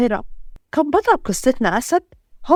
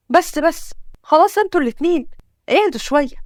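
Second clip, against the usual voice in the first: higher-pitched, urgent plea to stop; exasperated interruption; 3 semitones higher than usual. Acted. Father tells two arguers to calm down, exasperated. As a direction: cut in on the squabble, mildly exasperated.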